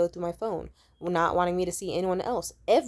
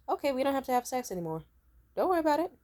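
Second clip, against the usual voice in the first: mock breezy retort; 5 semitones higher, faster than usual. Acted retort threatening to withhold sex.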